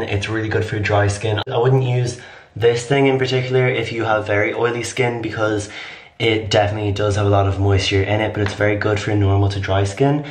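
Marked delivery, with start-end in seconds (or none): 6.2-10.2 raspy voice. Real, not acted. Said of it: "Why do I sound like a raspy old woman?".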